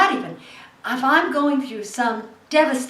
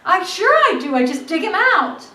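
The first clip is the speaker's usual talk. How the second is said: higher, louder, talking over him; heated insistence; 6 semitones higher, 5 dB louder than usual. Real, not acted. Actress lists her losses to the interviewer, loud and heated. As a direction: drive the list home forcefully.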